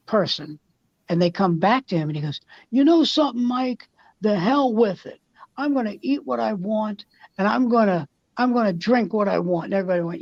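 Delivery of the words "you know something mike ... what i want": high, defiant retold declaration. Diet-weary man telling Mike he quits, defiant. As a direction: throw caution to the wind, pitched up.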